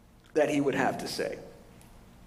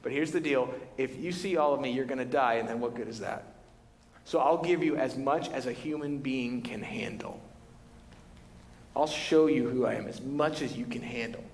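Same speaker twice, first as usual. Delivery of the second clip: gentle God; 3 semitones lower than usual. Retold or imitated. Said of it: "He's like".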